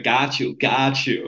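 put-on American catchphrase voice; American accent. Podcast host tossing out catchphrases, American accent. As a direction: slip playfully into an American accent. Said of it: "always say in an American accent".

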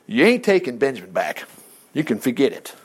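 low, final fatherly no; quietly immovable refusal; acted firm refusal. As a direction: lay it down low, ending softly. Jacob's final refusal, voiced by preacher.

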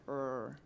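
soft English "Er" with no trill; the R in "Er" said the English way, tongue not touching. Shown as a demonstration. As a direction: say "Er" with a loose, untrilled English R. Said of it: "the R is something like".

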